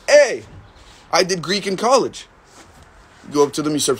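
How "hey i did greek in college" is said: imitating an eager show-off shouting hey; mock excited greeting. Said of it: "And you're like".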